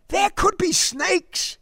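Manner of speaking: put-on slow, high boyish warning. A narrator's reading. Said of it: "Derek warned".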